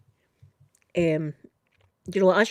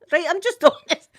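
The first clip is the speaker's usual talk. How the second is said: loud, high burst of laughter on the words; laughing; 9 semitones higher, 8 dB louder than usual. Real, not acted. Storyteller laughing about telling the caller straight. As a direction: laugh at her own honesty. Laughing at her own bluntness.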